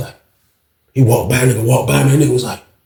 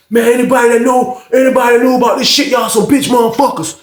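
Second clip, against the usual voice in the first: retold shout; 8 semitones higher, 4 dB louder than usual. Inmate calling out the pod.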